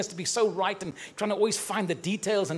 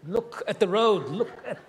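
a guardian angel begging, half amused; pleading angel; 4 semitones higher than usual. Retold or imitated. Angel urging the driver to watch the road, laughing. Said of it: "the angel's saying".

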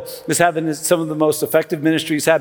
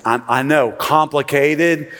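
sarcastic. Acted. Pastor teasing the congregation about volunteering, dry sarcasm. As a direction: pretend the sign-up is a huge burden. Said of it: "Do you feel the sarcasm coming from me?".

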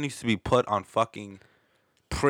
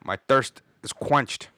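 dramatic relief; 3 dB louder than usual. Retold or imitated. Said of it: "So I'm like".

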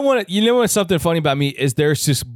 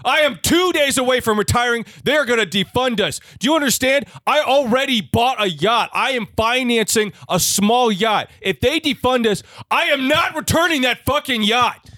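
higher, ranting police chief; angry boss; 3 semitones higher than usual. Acted. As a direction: rant at a sloppy officer. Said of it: "you're the chief".

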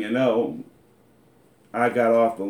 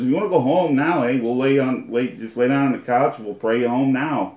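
mock offer; 2 semitones higher, 4 dB louder than usual. Friend quoted teasing, loud and fast.

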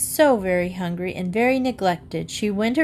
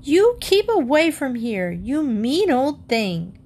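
scolding; 5 semitones higher than usual. Acted. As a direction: shake your fist and scold. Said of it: "shaking her fist up at Pulitzer".

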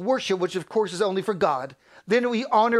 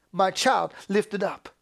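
firm, full-voiced proclamation; emphatic and sure; crying out; slower than usual. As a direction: declare it plainly from the pulpit. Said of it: "God cries out".

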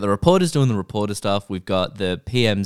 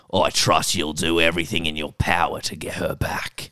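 whispered regal impression; hushed, breathy royal tone; Queen voice; 3 semitones lower than usual. Whispered Queen impression for friends. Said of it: "I'll do it in my Queen voice".

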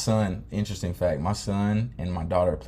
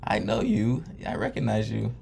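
put-on playful, higher-pitched British old lady; lightly put-on British accent, pitched up; imagined British accent; 5 semitones higher than usual. Old twin greeting her sister in rocking chairs, light British accent. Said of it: "like, a British accent".

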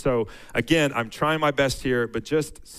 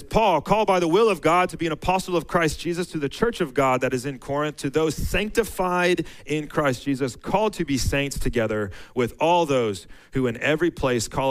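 raised, measured reading of the verses; scripture reading. Acted. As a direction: read it out like a pulpit lesson. Reads Corinthians aloud.

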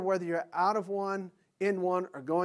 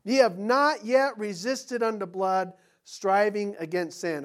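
slow, solemn verse reading; measured Bible verse reading; scripture reading; 3 semitones higher, 6 dB louder, slower than usual. Acted. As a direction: read it out from the pulpit. Reads another verse.

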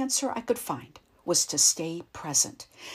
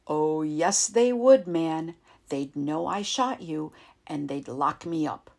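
heated protest; 5 dB louder than usual. Acted. Ray insists, heated refusal.

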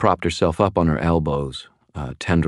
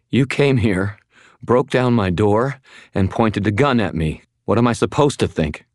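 higher, indignant woman's voice; upset, pitched-up protest; indignant accusation; 6 semitones higher, 3 dB louder than usual. Acted. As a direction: list the offences accusingly. Frightened woman accuses intruder in argument.

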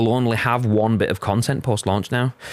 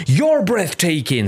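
Keanu Reeves; 8 semitones higher, 3 dB louder, slower than usual. Retold or imitated. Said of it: "says Keanu Reeves".

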